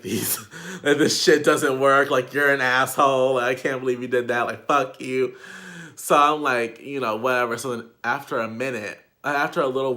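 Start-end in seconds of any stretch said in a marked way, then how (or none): 0.0-5.4 mock angry rant. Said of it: "I'm mad as fuck".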